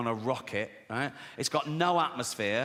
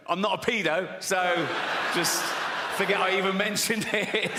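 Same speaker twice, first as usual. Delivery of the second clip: lightly acted, higher-pitched denial; over-protesting man; 5 semitones higher, 3 dB louder than usual. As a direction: protest a bit too much, pitched up. Imagined man protesting too much.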